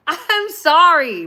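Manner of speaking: laughing, high and drawn out; laughing apology. Real, not acted.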